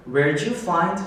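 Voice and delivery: "Where'd you find" run together, the "did" swallowed; linked, reduced. Shown as a demonstration. Teacher showing how the question is read, linked and reduced. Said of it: "이렇게 흘려서 읽는단 말이에요".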